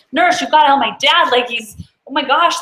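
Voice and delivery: urgent plea. Retold or imitated. Daughter begging a nurse to help her dad, panicked.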